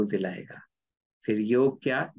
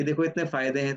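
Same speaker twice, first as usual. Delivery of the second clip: firmer and quicker, a mild telling-off; a bit strict; faster than usual. Shown as a demonstration. Teacher getting a little strict with his own mind, mildly stern. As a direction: lay down the law to your own mind. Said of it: "थोड़ा सा strict होके".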